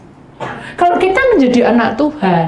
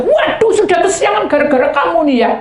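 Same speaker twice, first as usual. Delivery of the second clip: high, hurried complaint; mock scolding husband; 8 semitones higher, 4 dB louder than usual. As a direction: whine like a late husband. Husband rushing, scolding wife.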